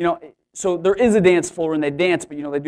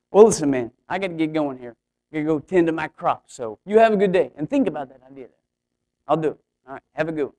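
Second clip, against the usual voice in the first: put-on caricature Oklahoma accent; faster than usual. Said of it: "a caricature of people from Oklahoma".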